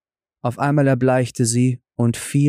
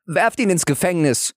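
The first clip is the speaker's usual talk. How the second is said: higher, angry royal command; angry king; 7 semitones higher than usual. A narrator's reading. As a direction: order it in anger. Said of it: "war zornig darüber und rief".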